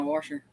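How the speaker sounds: "washer" with an added r, like "warsher"; hillbilly pronunciation. Shown as a demonstration. Giving examples of hillbilly talk, "washer" said as "warsher". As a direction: put a country r into "washer". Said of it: "our hillbilly talk".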